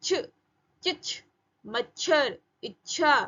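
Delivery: चिच, मच्छर with a half ch held into aspirated chh; joined consonants. Shown as a demonstration. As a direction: stop briefly on the half च in इच्छा, then release छ. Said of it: "आधा च और छ".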